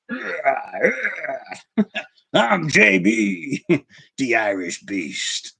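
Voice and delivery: slow, laughing through a mock macho boast; laughing self-mockery. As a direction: poke fun at your tough-guy image. Mocking his tough persona.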